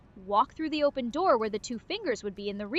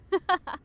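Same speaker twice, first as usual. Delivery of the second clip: villain laugh; 7 semitones higher than usual. Pretend. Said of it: "Get more intimidating".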